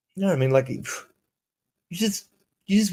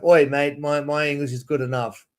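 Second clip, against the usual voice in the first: mock Aussie accent. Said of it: "like an Aussie accent like that".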